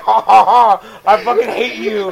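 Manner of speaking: loud fake laugh into a jeer; mock gloating laugh. Clerk imagined tricking a customer for entertainment, mock gloating. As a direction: gloat with a put-on cackle.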